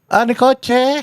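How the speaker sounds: very high mock-confused voice; mocking high-pitched bewildered echo; dazed captive, mocked. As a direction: squeak it like someone who has lost their mind. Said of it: "parang naging baliw na".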